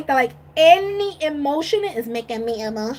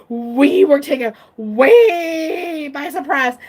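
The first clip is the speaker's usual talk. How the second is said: slow, laughing and crying at once; laughing through tears; slower than usual. Real, not acted. Fan recounting the surprise, laughing through tears. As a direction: let the laugh crack through.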